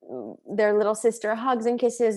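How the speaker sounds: put-on high pleading kid voice, mild; child voice. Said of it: "also they're like".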